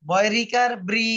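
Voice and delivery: "ব্রি" blended into one slow syllable, bri; syllable-blending demo. Shown as a demonstration. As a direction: slowly spell out "বয়রিকার", then sound "ব্রি" as bri. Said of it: "উচ্চারণটা হবে রি এর মতো".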